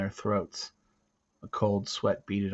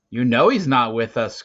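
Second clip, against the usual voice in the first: growled; 2 semitones higher, 9 dB louder than usual. Acted. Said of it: "growled Garth".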